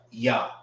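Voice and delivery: Ya alone, open "yah"; standalone syllable. Shown as a demonstration. Teacher showing it stands by itself, isolated Ya. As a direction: set Ya apart as one syllable. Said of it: "this is pronounced by itself".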